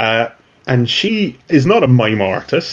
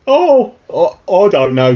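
flustered mutant; 6 semitones higher, 3 dB louder than usual. Acted. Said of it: "says the, uh, the guy with the tentacle".

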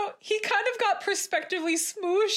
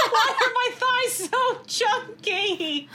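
laughing; 4 semitones higher, slower than usual. Real, not acted. Laughing at her drawing.

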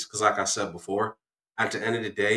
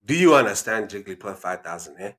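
stern mock-elder African accent; 2 semitones lower than usual. Dad checks listener has understood, African accent. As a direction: quiz them in an African accent. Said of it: "African accent".

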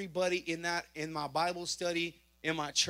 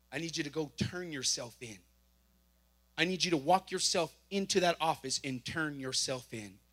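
voice of God; 4 semitones lower than usual. Retold or imitated. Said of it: "God began to tell me".

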